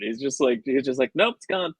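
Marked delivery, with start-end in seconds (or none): 1.1-1.7 mock blunt Surfer. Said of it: "he's just being matter of fact and blunt".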